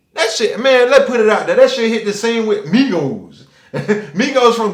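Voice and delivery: loud, laughing jab at the rap group. Real, not acted. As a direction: laugh while you tease them.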